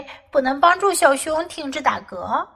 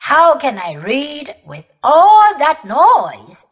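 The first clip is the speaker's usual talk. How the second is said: annoyed; 3 semitones higher, 7 dB louder, slower than usual. Acted. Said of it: "he asked".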